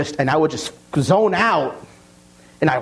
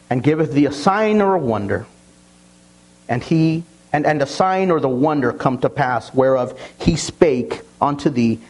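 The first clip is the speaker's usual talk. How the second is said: scripture reading. Acted. Pastor reads Deuteronomy to the congregation, solemn. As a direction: read it out with weight.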